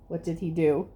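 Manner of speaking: ordinary delivery, nothing marked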